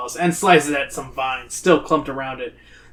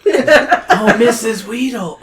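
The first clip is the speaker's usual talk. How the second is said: put-on girl calling out; 7 semitones higher, 4 dB louder, much slower than usual. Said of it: "Zoe calls out".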